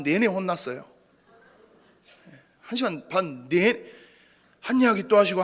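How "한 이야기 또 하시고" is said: 이야기 stressed, higher and louder; first of three repeats, loudest; repeating nagging. Shown as a demonstration. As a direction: hit 이야기 in mock exasperation. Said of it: "계속 똑같은 얘기예요".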